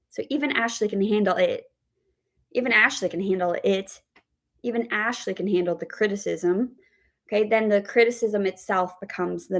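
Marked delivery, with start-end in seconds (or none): 0.3-4.0 final IT separated and weighted; stress on IT. Shown as a demonstration. Teacher shows stress on the final word, stress on IT. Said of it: "the word stress on that final word". 4.6-6.8 CRITICISM given the weight; stress on CRITICISM. Shown as a demonstration. Teacher spells out what IT means, stress on CRITICISM. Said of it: "Stress is then on the criticism".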